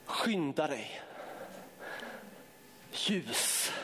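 soft, low, slow prophecy; hushed prophetic word. Real, not acted. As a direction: speak it gently over them, slowly. Quiet prophetic word after shouting. (stilla, låg profetisk röst)

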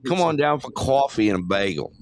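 put-on Boston vowels; Boston accent. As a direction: talk like a Bostonian. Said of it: "You gotta say Boston".

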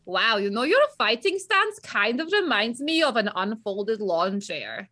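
mocking insult. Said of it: "be like".

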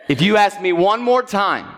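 stern warning. Retold or imitated. Acted parental warning to nagging son.

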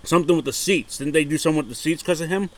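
words around a mouthful of ice. Real, not acted. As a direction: speak while crunching ice. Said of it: "I'm chewing on an ice cube".

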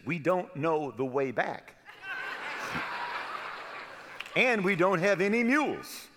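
laughing through the friend's punchline. Retold or imitated. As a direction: crack up telling it.

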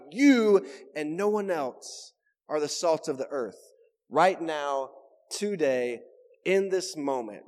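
"You" held long, then measured phrases with pauses; emphatic YOU. Retold or imitated. Preacher explaining the Greek, emphatic on YOU. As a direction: stretch "You" and set each closing phrase apart. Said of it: "is an emphatic exclamation".

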